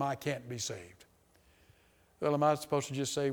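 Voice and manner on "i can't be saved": quiet despair. Retold or imitated. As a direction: let it sink, hushed and defeated. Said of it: "a man told me one time".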